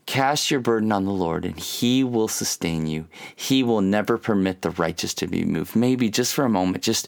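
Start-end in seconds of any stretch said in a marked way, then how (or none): 0.1-5.8 scripture reading. Shown as a demonstration. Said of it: "Isn't that a beautiful psalm?".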